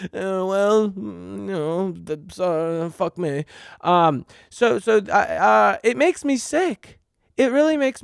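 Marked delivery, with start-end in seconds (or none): 0.0-3.4 slow, higher mock laugh-talk as heartless bosses; mocking corporate bosses. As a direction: ham up uncaring executives, drawn out. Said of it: "They go".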